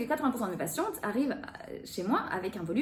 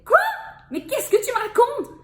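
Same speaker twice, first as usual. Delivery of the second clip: loud, high indignant outburst; annoyed; 13 semitones higher, 9 dB louder than usual. Shown as a demonstration. Coach demonstrating anger, loud and high. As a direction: demand an answer, half-laughing. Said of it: "même être fâché".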